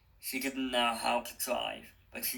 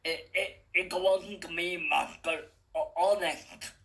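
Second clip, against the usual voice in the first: higher, nervous stammering servant; 6 semitones higher than usual. A narrator's reading. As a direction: stutter in fear before the master.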